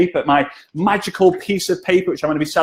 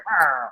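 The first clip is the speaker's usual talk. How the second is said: jaguar noise; 3 dB quieter than usual. Retold or imitated. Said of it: "I can't do the jaguar noise".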